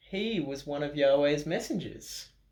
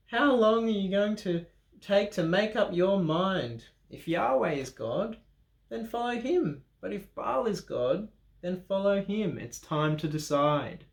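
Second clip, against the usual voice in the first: raised, a touch of a prophet's challenge; Elijah challenging; 6 semitones higher than usual. Acted. Elijah challenging the people of Israel, lightly raised prophet voice. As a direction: press the crowd to choose. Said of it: "And Elijah said to them".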